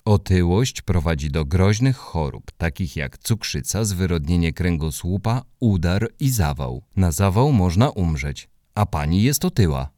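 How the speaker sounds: lightly voiced flat recital; monotone voice. Hubek repeats the warning to the neighbour in a monotone. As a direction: read it out like a list, no feeling. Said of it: "powiedział to wszystko monotonnym głosem".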